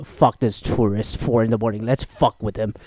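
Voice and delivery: a hint of a scheming airport worker; lightly voiced TSA guy. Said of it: "this guy said".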